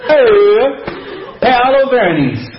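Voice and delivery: playful fake Italian accent with a laugh. Shown as a demonstration. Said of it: "my amazing Italian accent".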